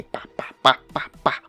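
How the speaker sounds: rapid-fire "pá" noises; punchy, percussive mouth-made cut sounds; imitated film cuts. Vlogger jokes his video will look like the choppy rock band biopic, imitated cut noises. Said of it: "aquele filme da banda, né? Que tem".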